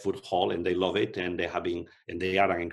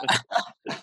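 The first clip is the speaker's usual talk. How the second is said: breathy chuckle. Real, not acted. Laughs at being told accent.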